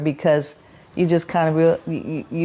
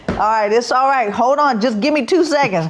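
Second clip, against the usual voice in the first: out of breath; 7 semitones higher than usual. Retold or imitated. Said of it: "You're seeing me going".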